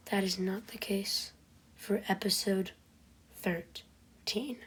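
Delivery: ominous hushed whisper. Acted. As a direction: drop to a dramatic whisper. Dramatic storytelling whisper.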